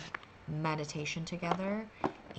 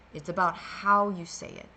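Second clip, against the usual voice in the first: sassy; 6 dB louder than usual. Real, not acted. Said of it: "I don't know why I sound sassy".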